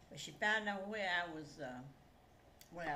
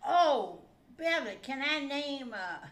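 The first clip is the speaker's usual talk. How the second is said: louder, pleading and eager; eager ask; 2 semitones higher, 9 dB louder, slower than usual. Retold or imitated. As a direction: ask her hopefully, with a lift. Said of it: "And I said".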